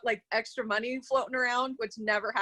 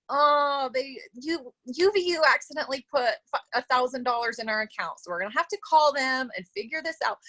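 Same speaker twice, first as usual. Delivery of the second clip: fast, flustered, a bit higher; excited rush; 4 semitones higher than usual. Retold or imitated. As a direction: blurt the news out in a hurry. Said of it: "So I call Eli and I'm like".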